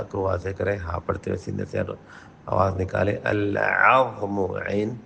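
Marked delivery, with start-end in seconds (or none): 3.2-4.4 العظم with the ain pressed from the throat, slowly; throaty ain. Shown as a demonstration. Teacher showing the ain in العظم. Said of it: "حلق پہ زور دیتے ہوئے".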